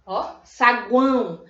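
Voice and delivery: "saguão" said slowly with the A leaned on; stressed vowel shown. Shown as a demonstration. Teacher showing pupils the strong vowel, slow and clear. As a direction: stretch out "saguão" so the stressed A rings. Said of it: "O A chega aqui nessa situação".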